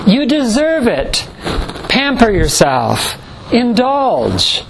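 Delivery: lightly voiced ad man purring indulgence; mock ad pitch. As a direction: tempt them like a TV ad would. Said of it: "Advertising tells us".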